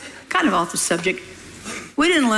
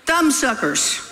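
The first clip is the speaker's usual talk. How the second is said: laughing scold; 6 semitones higher than usual. Real, not acted.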